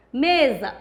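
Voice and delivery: "Mesa" with the first syllable stressed, ME-sa; teacher's example, MEsa; stress on penultimate syllable. Shown as a demonstration. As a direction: lean on the ME of "Mesa". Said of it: "a tônica é a penúltima sílaba".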